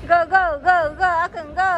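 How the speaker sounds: high loud cheer. Real, not acted. Cheering the child on.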